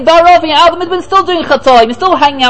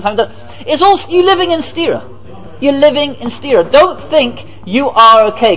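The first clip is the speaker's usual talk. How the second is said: Moshe's stern rebuke; 3 semitones lower than usual. Retold or imitated. Moshe rebuking people, low voice.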